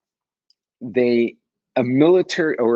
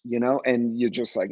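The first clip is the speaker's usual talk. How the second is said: usual speaking voice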